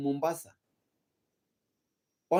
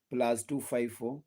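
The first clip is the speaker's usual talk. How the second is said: spelling out the digits slowly, softer; slow, careful repeat of the number; 4 semitones lower, 5 dB quieter, slower than usual. Shown as a demonstration. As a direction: say it again slowly so they can write it down. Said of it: "my number is always public".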